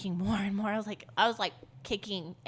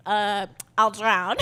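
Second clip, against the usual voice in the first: laughing; 9 dB louder, slower than usual. Real, not acted. Laughing at big sister instinct.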